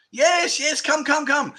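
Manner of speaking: high, playful mock bar girl; coaxing bar girl. Bar girls begging the tourist to sit, high playful coaxing. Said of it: "bar girls coaxing him".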